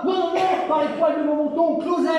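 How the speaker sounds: high squeaky pig voice; little pig refusing. Acted. Piglet refuses the wolf, high and cheeky.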